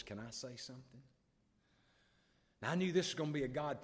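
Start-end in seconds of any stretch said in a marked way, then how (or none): 0.0-1.0 small, soft, hushed question; timid request. Retold or imitated. Father taps his son to speak in church, timid request. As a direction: ask it quietly, hesitantly.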